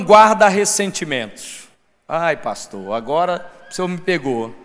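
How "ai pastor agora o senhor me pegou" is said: low, soft, caught-out groaning admission; sheepish congregant. Acted. Congregant admitting to pastor he's been caught, sheepish and low. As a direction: own up reluctantly, voice dropped. Acts a cornered congregant confessing.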